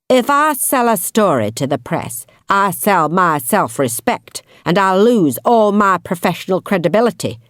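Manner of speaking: a hint of a menacing Yorkshire man; menacing detective. Hunter threatening while gripping wrist.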